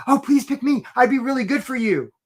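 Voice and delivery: an applicant pleading with the company, mock eager; eager job seeker. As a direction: beg to be picked, hammed up. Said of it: "We're saying things like".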